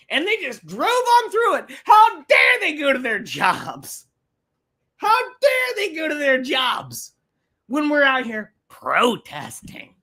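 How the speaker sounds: sarcastic imitation of a protester's complaint; mock indignant protester. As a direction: ham up the offended marcher.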